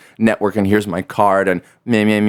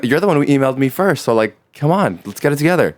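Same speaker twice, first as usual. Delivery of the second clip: raised, fast, fed-up complaint; exasperated higher-pitched rant; 6 semitones higher, faster than usual. Retold or imitated. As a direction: vent at someone who ghosted you, higher. Venting at flaky contacts.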